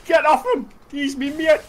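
high, loud yell to back off; protective shout. Real, not acted. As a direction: holler in a friend's defence. Defending friend in game.

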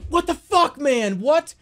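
high, loud mock freakout; yelping disbelief at a stream mishap; outraged retelling. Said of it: "And I'm being like".

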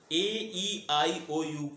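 slow vowel recitation. Shown as a demonstration. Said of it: "teacher recites the vowels again".

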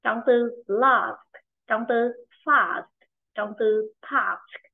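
slow, with a drawn-out "ah" in "last", "fast", "task"; long A. Shown as a demonstration. Teacher shows the class the long A in "last", "fast", "task", slowly stretched. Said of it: "Con nữa là thanh A dài".

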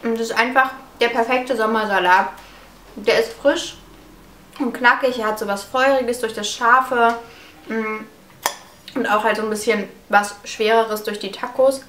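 talking with a mouth full; chewing between words. Real, not acted. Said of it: "Entschuldigt, dass ich mit vollem Mund spreche".

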